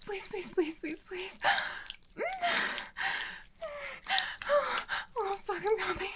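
high, breaking whispered pleas; trembling whisper. Acted. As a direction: let the voice shake and climb. Whispered climax, rising pleas.

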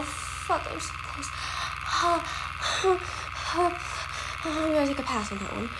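from tense mutters to high loud cries; building strained cries. Real, not acted. Escalating strain while doing crossword.

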